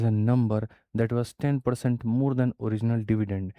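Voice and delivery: slow, deliberate reading of the question; measured classroom read-aloud. Acted. Reads English question slowly aloud.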